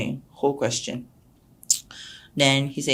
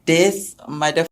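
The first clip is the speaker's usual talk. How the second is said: slow laughing curse; 8 dB louder, much slower than usual. Retold or imitated. Cursing the snitching teacher.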